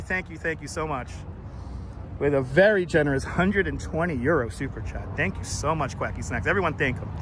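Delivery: deep, low troll voice thanking a donor. Pretend. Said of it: "You like my troll voice?".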